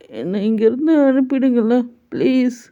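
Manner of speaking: high small voice begging; childlike pleading. Acted. A singer begging the mother to send him home, high childlike plea.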